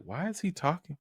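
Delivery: high-pitched bewilderment building to a loud cry for help; mock freaked-out executives. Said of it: "the face of the executives as they're like".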